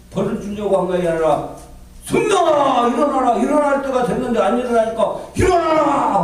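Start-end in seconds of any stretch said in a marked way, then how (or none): 2.0-6.2 high, ringing call to get up; urging awake. Retold or imitated. God cheers on an oversleeping servant, urging him awake. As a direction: rouse him with insistent encouragement, not anger. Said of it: "응원해 준 거예요".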